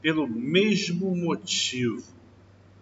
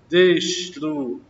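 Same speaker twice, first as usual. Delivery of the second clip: slow drawn-out word; 5 dB louder, much slower than usual. Shown as a demonstration. Teacher slowly stretches the example word for the class. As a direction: stretch every syllable slowly. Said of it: "teacher drawing out example word".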